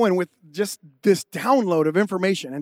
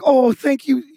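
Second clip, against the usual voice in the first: grateful wife; 4 semitones higher than usual. Retold or imitated. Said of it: "She's like".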